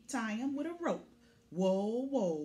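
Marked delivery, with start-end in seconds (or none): 1.5-2.4 startled whoa, drawn out; surprised whoa. Acted. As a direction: gasp at the size. Huge hay load.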